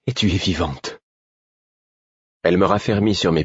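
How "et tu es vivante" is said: subdued wonder, falling at the end. A narrator's reading. Relieved repeat to found friend.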